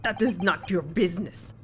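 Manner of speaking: curt mock Russian sailor; bad Russian accent. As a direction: shut them down in a put-on Russian accent. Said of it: "my very bad Russian attempt".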